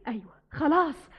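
choked, tearful resolve. Acted. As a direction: say it through tears. Girl crying, decided. (بصوت باكي)

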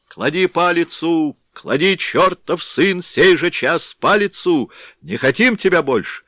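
angry mob shout; crowd shouting. A narrator's reading. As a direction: roar at the chief to drop the mace. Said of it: "кричали из толпы казаки".

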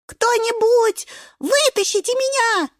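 stuck and yelling for help; spinach yelling. Acted. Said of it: "вопит шпинатик". (шпинат вопит о помощи)

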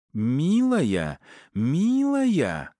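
high, hissing mock of his word; wife hissing his pet name back at him; hissed mockery. A narrator's reading. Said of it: "прошипела ему жена".

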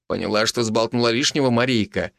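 plain reading voice

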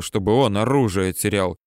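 plain reading voice

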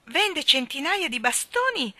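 high, loud, slow cry; excited shout. Acted. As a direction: shout it out in amazement, drawing it out. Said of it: "gridò Michael".

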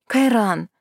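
falling scolding call of his name; indignant. Acted. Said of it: "Хоть и выдала возмущение".

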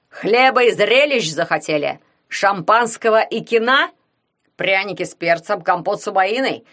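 loud, high, sarcastic bellow at a crowd; angry shouting. A narrator's reading. Соловей drives the gawking spectators away, angry shout. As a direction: yell mocking questions, building to an explosive order. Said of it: "закричал Соловей на зрителей".

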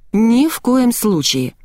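slow, firm, cutting refusal; curt refusal. A narrator's reading. Narrator flatly refuses the girl's plea to come. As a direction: cut her off, word by word. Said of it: "отрезала я".

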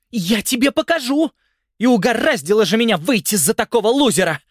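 высоко и громко, в ярости; визжит на мужа; визгливый крик. A narrator's reading. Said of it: "дико визжа". (жена в ссоре визжит на мужа)

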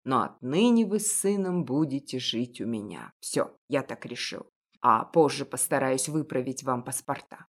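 a hint of a resolute kindly baker; encouraging. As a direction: cheer her up firmly. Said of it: "подбадривающе добавил".

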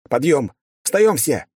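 high, commanding shout to the room; loud wake-up call. A narrator's reading. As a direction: yell everyone awake. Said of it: "От моего крика".

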